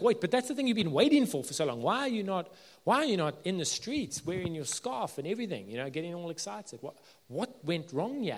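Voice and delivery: high, loud disbelief at the start, easing off; incredulous fan. Retold or imitated. Preacher voicing a baffled friend to a glum fan, incredulous. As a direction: ask him what on earth went wrong. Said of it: "You're like".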